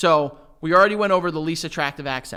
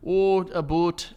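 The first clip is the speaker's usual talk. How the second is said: slow Canadian "a boot" for about; drawn-out Canadian ou vowel; Canadian accent; slower than usual. Retold or imitated. Answering what a Canadian accent is, slow Canadian accent. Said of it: "What's a Canadian accent?".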